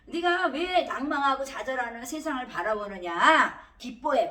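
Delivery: loud, stretched-out rebuke as God's words; slow, emphatic call to take heart; stern exhortation. Retold or imitated. Preacher voices God urging the downcast to rejoice, loud emphatic exhortation.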